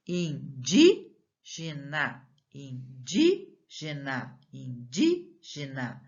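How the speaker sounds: indígena slowly, DÍ lifted, pause, then GENA; chanted breakdown of indígena with DÍ standing out; stressed-syllable demo. Shown as a demonstration. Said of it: "Vamos ler as palavras".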